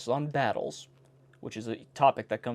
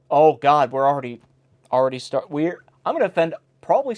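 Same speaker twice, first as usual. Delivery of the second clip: dismayed; 7 dB louder than usual. Real, not acted. Alarmed by offensive line.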